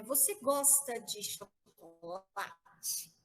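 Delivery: "Você gosta de chocolate?" drawn out slowly; slow question. Shown as a demonstration. Teacher models a question to the class, slowly. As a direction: ask it slowly for the students. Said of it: "É a mesma coisa de dizer assim".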